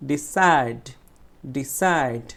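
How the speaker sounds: ডিসাইড with a strong, long "said"; stressed second syllable. Shown as a demonstration. Teacher showing students the stress, forceful "said" in ডিসাইড. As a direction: punch the second half of ডিসাইড. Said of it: "জোরে উচ্চারণ করব".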